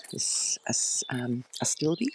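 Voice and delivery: whisper. Real, not acted. Naming plants quietly in garden.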